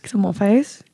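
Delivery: light attempt at an Australian accent. Shown as a demonstration. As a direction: echo it as a pretend Australian. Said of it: "How is your Australian accent?".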